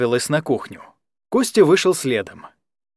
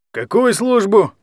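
slow, higher mocking question; snide; 7 semitones higher, 4 dB louder than usual. A narrator's reading. Guardian mocking Anya's wrong word, slow and snide. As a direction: needle her, taunting. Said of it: "ехидно переспросил Захар".

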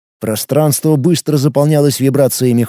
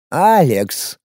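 solemn, heartfelt. Acted. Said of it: "проникновенным и слегка торжественным голосом".

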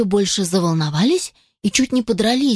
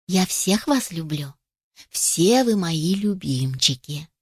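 tender mother hen; 3 semitones lower, slower than usual. Acted.

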